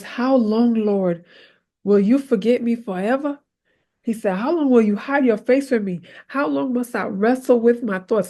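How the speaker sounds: lightly heightened lament; dramatic David. Acted. Preacher reading David's psalm as a mild, dramatic lament. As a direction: read the psalm as David's complaint. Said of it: "David was going in. He was so mad".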